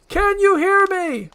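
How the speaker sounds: high, slow, loud holler; drawn-out yell to reach someone; shouting to someone trapped. Acted. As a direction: shout slowly so they hear inside. Shouting into her stomach.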